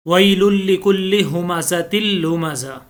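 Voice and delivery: measured tajweed recitation; chanted Quranic reading. Shown as a demonstration. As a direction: recite the verse with care. Recites the verse again.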